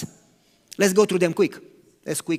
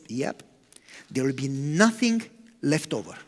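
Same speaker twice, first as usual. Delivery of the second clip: softer, lower, matter-of-fact; sober confirmation; 7 semitones lower, 5 dB quieter than usual. Retold or imitated. Jesus replying to the doubting disciple, quiet and sober.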